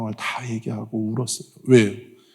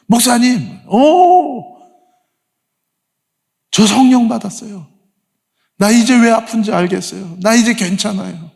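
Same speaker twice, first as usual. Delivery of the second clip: higher, bursting joy with an "오!"; imitating excited friend; 9 semitones higher, 4 dB louder than usual. Friend joyfully tells pastor she received the Spirit, excited. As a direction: gush like someone just healed. Overjoyed friend reports healing.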